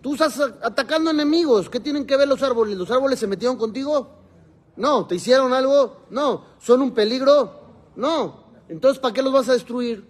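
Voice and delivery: rhetorical challenge. Acted. Teacher arguing the trees' case.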